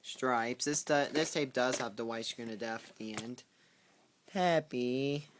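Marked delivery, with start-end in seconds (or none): 4.3-5.3 higher, louder call of the dog's name; calling the pet. Real, not acted. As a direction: call out to the dog.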